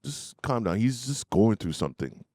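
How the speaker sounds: soft, understated dad voice; calming dad. Retold or imitated. Dad calming the livid aunt, gently reassuring. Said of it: "And my dad was like".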